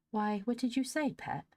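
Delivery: high-pitched, astonished question; puzzled surprise, pitched right up. A narrator's reading. Polly questions her little sister, astonished. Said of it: "asked Polly, astonished".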